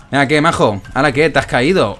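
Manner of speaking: loud, mocking jeer, pitch up; taunting. Real, not acted. Gamer mocking the enemy he just killed, loud taunt. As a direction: rub it in to the fallen enemy.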